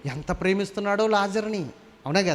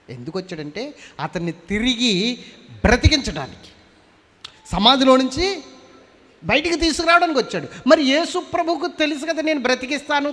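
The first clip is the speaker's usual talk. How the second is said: much higher, louder fiery sermon; full force preaching; 8 semitones higher, 4 dB louder than usual. Acted. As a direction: drive the point home to the crowd.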